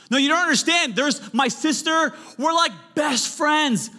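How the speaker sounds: high, loud whiny objection; protesting congregant. Pretend. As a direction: whine back like a defensive listener. Imagined congregant objecting again.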